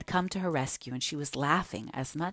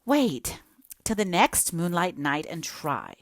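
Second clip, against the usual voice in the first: gently; 2 semitones higher than usual. Acted. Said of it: "said Anne gently".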